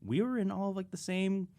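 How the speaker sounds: amazed friend. Retold or imitated. To a hunting buddy, high amazed disbelief. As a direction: gape at a friend's new accent. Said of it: "and it's like".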